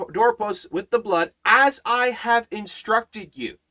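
rising and falling pulpit cadence, punching each key word; fervent preaching. Acted. Pastor preaching the Passover promise to his congregation, fervent.

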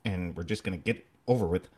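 quick, clipped delivery; brisk, get-it-over-with pace; clipped Northern pace. Shown as a demonstration. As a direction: rush it out as if freezing. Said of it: "it's clipped".

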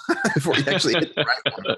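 chuckling through the words; laughing. Real, not acted. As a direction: laugh while saying it. Laughing about names of kids.

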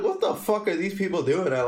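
mock-baffled late-night grumble; recounting it in disbelief; retold bewilderment. Retelling own bewilderment at night.

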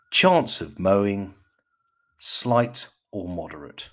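slow, emphatic BBC forecast verdict; BBC accent. Pretend. Podcaster announces the chance of mowing, mock BBC accent. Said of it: "put on my best B B C".

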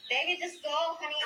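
high, soft coaxing voice; mock sweet coaxing. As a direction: coo at him like a sweetheart. Voicing soothing advice to thief.

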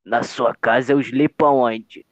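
slow, lightly seductive purr; a hint of a seducer whispering; Eurico Miranda seductive voice. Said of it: "com aquela voz sedutora dele".

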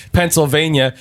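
normal talking voice

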